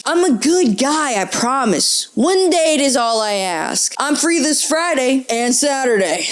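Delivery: put-on lightly Italian-accented fuckboy. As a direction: plead as a suitor with an Italian lilt. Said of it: "Italian accent for the fuckboy".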